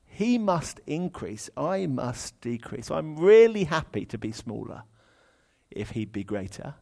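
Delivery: slow, mildly joyful read; delighted. Shown as a demonstration. Preacher demoing John's joyful reading, mildly delighted. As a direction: say it gladly, happy to shrink. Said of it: "John says it in a delighted, joyful way".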